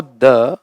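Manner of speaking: द with a short schwa, before consonants. Shown as a demonstration. Teacher explaining the article, short-vowel द. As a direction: say द as a short 'thuh'. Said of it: "तब बोलते हैं जब आगे की ध्वनि".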